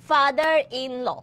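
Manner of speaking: "father in law" with each word set apart; split into separate parts. Shown as a demonstration. Teacher showing the parts of a compound noun, "father in law" said slowly piece by piece. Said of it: "তিনটা syllable আছে different different".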